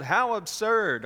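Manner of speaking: high, loud, drawn-out scoff; loud high-pitched jeer; yelling. A narrator's reading. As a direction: yell it in mocking disbelief. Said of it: "They yelled".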